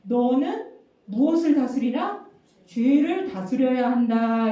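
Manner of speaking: emphatic, deliberate pronouncement; God commanding Cain. Acted. God instructs angry Cain, firm deliberate command. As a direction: pronounce it firmly, stretching the final words. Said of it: "하나님이 뭐라고 말씀하시냐면".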